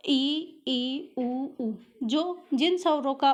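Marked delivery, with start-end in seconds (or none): 0.1-1.7 ई and उ drawn out, mouth nearly closed; teacher showing the closed vowels ई and उ; vowel demo. Shown as a demonstration. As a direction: say ई, ई, उ, उ as slow isolated vowels. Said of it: "सं यानी जो कम खुलता हो".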